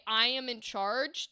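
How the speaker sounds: casual claim of control, ending on a rise; plain statement. Shown as a demonstration. Coach demoing the first, casual read of the line. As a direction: say I am in charge lightly, as a simple fact. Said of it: "the intent changed from a".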